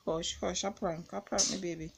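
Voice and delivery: calm an upset partner; soothing. Real, not acted. Prankster reassuring upset partner, soothing.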